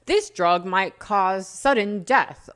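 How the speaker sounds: lightly voiced drug-ad warning, slow; a slightly slowed mock disclaimer read; small-print disclaimer. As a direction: recite the side effects as a mock announcer. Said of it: "in the small print, or they say".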